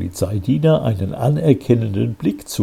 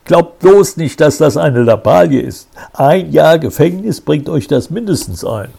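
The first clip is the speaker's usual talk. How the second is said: stern threat; 6 semitones higher, 4 dB louder than usual. A narrator's reading. Commissioner threatening the boys.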